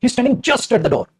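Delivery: he is standing just at the door, very slow and clear; slow down so every word lands; a teacher reining himself in, slowing right down; slowly. Shown as a demonstration. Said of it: "अरे धीरे बोल".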